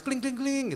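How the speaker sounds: imitated message chime; sms ringtone imitation. Shown as a demonstration. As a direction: chime it like an old phone alert. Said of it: "Dapat S M S".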